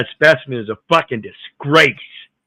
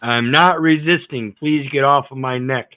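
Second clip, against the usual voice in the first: quoting the driver; 3 semitones higher than usual. Retold or imitated. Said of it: "quoting the driver".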